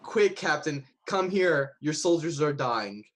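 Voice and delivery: lightly voiced goblin calling urgently; a hint of goblin, calling to the captain; goblin impression. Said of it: "in my best goblin impression".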